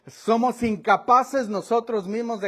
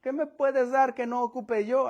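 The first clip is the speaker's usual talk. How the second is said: higher mock street voice; mock the beggar wanting cash; imitating a disappointed beggar; beggar's inner voice; 4 semitones higher than usual. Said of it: "Así es como él estaba pensando".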